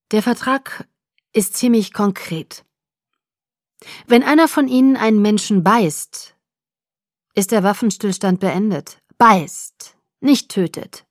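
लेकिन "Beißt" पर ज़ोर देकर; emphatic. A narrator's reading. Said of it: "betonte er".

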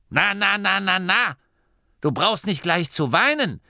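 high-pitched, brisk comforting; consoling granny. A narrator's reading. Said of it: "bevor sie ihm tröstend auf den Rücken klopfte". (tröstende, hohe Oma-Stimme)

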